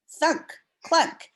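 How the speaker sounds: high, bouncy thunk and clunk; playful sound words. Acted. Teacher reading about hail to kids, high playful sound effects. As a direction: make the hail noises fun.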